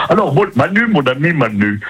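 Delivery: alien host voice taking over; Bill voice. Acted. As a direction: let the alien voice take over. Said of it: "il recommence".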